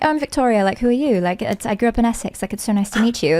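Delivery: friendly introduction in British English; English accent. Acted. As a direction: play an Englishwoman from Essex meeting someone. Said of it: "fun to go out and I'm just like".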